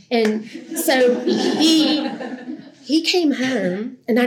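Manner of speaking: drawn-out amused laugh before the story. Real, not acted. Telling how her husband surprised her, laughing.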